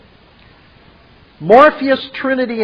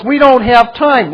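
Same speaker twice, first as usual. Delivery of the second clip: Neo insisting; 5 semitones higher, 5 dB louder than usual. Acted. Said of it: "Neo says".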